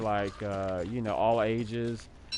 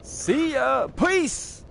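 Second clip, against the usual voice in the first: much higher squeaky falsetto farewell; squeaky goodbye; slower than usual. Acted. Streamer signing off to viewers in a squeaky falsetto. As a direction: sign off in a silly high squeak.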